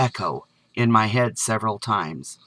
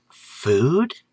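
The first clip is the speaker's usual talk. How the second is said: a touch of disbelief, question lifted; doubting what she heard. A narrator's reading. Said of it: "with an air of disbelief".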